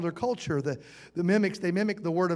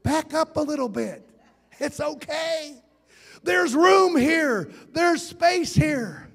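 higher, slow, patient "back up a little bit"; mock plea for space; 5 semitones higher, slower than usual. Preacher jokingly tells a close-talking visitor to back up, slow and higher. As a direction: coax a close talker to step back, spelled out slowly. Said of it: "I wanna say".

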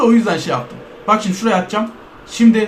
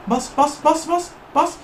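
urgent muttering; 3 semitones higher, 6 dB quieter than usual. Real, not acted. Gamer urging the player to press, hushed urgency. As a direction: urge the player on under your breath.

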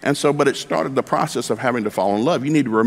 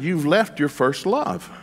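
slow God voice; 6 semitones higher, much slower than usual. Acted. God's line, slowed.

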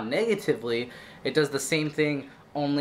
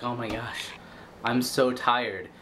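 tired complaint. Retold or imitated. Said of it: "you're like".

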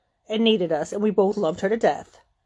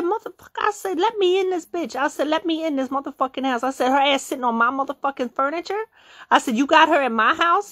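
higher-pitched, heated quarrel; retold angry demand; 5 semitones higher than usual. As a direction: act out demanding to be let in.

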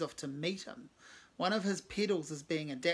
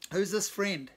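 louder call, too loud on purpose; 3 semitones higher, 6 dB louder, slower than usual. Acted. Cave calling out over his shoulder to Mark, loud. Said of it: "he calls out way too loud".

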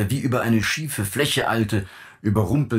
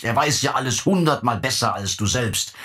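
rising anger; 5 semitones higher, 3 dB louder than usual. Acted. Father's gloating rant builds.

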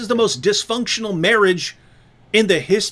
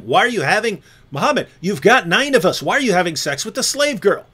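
mock nagging wives; 3 semitones higher than usual. Wives complaining to Muhammad.

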